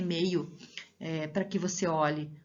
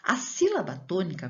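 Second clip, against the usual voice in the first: ordinary talk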